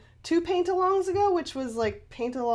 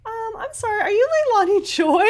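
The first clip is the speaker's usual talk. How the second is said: higher-pitched hesitant fan, growing louder; starstruck fan; 12 semitones higher, 7 dB louder, faster than usual. Retold or imitated. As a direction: imitate an excited girl recognising someone. Acts out girl recognising her.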